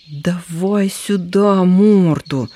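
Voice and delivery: slow, drawn-out bossy order; командирским голосом; commanding voice. Acted. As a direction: boss the younger fox around. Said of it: "командирский голос первого".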